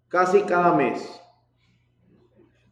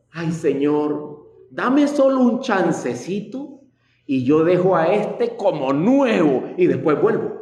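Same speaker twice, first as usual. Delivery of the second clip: mock pleading. Believer wheedling God for a little permit, mock whiny. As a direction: beg like a sly child.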